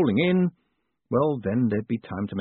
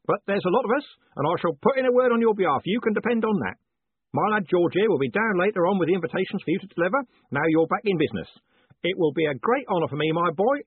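put-on old Parker roaring; 8 semitones higher than usual. A narrator's reading. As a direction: roar it like a deaf old soldier.

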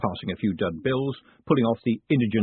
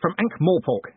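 slow, higher-pitched growl; 9 semitones higher, 5 dB louder than usual. A narrator's reading. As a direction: growl it out, drawing the words slowly. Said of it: "he growled".

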